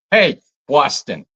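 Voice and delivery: drawn-out, light mock Boston accent. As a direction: slowly try on a Boston accent. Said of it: "I like the Boston accent".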